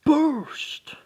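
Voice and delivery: very high loud whispered cry; gear's call. Acted. The glove calling out to the boy, high whispered cry. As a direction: hiss the word out like a spirit. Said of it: "he just hears".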